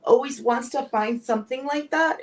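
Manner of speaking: emotional confession, voice breaking; crying while talking. Real, not acted. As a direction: talk through real tears. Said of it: "I'm sorry that I'm getting so emotional".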